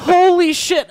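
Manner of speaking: stunned and a little scared; shocked gasp. Retold or imitated. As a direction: blurt it out in disbelief. Shocked reaction to Jill's threat.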